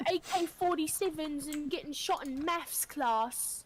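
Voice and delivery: mock British comeback; exaggerated British indignation; British accent. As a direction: play a defensive Brit. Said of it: "British people be like".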